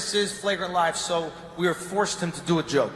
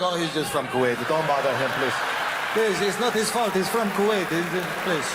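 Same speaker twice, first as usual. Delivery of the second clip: put-on Gulf Arab accent; 2 semitones lower than usual. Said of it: "God, great accent".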